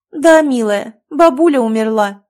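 loud, high voice over the phone; a distant caller on the line. Acted. Phone call news of death.

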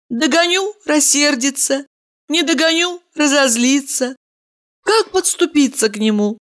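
high woman's voice, fretting to herself; woman's thoughts. Acted. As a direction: Valeria pondering him. Valeria's inner monologue.

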